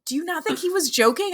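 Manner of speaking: high, doubtful imitated tone; mock questioning. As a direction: ask like it's obvious. Classmates questioning.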